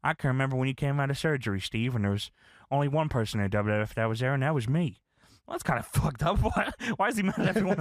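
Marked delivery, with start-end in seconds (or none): 0.0-5.0 mildly hurt, mostly lowered voice; retold sad appeal to a friend; a touch of wounded earnestness. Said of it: "J R's sad here".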